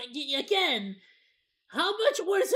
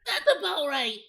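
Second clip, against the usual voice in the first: laughing; 3 semitones higher, 3 dB louder than usual. Real, not acted. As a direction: laugh while agreeing. Repeats the line laughing.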